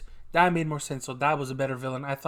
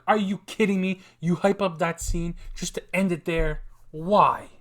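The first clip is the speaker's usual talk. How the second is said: retold exasperated rant; 3 semitones higher, 3 dB louder than usual. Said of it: "I was so pissed".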